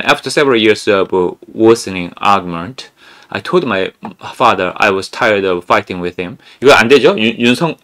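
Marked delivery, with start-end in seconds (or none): 0.0-6.4 slow read. Shown as a demonstration. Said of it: "그다음에".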